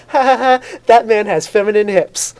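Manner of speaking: imitating a comedian's high mocking taunt; high-pitched voice. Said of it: "in a high-pitched voice".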